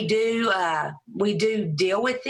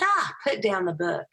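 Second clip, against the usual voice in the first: a pitched-up knowing exclamation; Rachel. Retold or imitated. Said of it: "She said".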